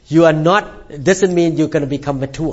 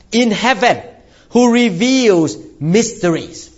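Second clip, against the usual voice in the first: scripture reading. Acted. Preacher reads Daniel's reply to the king, measured scripture reading. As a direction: read it out solemnly, phrase by phrase.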